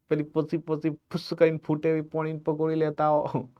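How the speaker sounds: teacher playing a child wheedling for pani puri; hint of a pleading kid; mock child craving snacks. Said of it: "બાળક એવું માગે".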